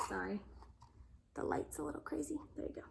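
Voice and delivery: soft quick aside; quiet aside. Real, not acted. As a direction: drop out of the story, softly. Aside to audience.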